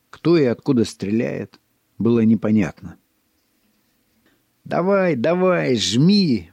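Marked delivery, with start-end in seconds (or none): 4.6-6.5 high cheering call; cheering shout. A narrator's reading. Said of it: "поддерживая его, выкрикнул".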